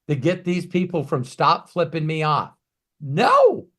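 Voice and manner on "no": sharp high loud No; emphatic no. Real, not acted. Answering his own question with a loud emphatic No.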